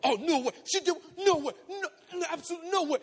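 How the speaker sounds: high, agitated protest; worked up. Retold or imitated. Friend hearing what she did, worked-up outrage. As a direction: repeat it in mounting disbelief. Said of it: "he gets all worked up".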